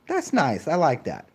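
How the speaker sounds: high, prissy mock approval; mock prim approval. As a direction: sniff it like a prim busybody. Mocking bland moderate people.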